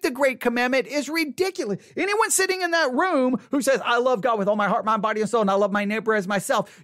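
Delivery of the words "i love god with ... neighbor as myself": rote claim. Acted. Quoting a false claimant, rote recital.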